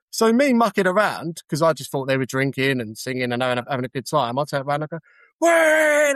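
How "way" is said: high, loud mock whoop; playful shout back. Cabbie shouting back at pub crowd, playful whoop. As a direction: whoop back at them for a laugh. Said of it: "just mucking around".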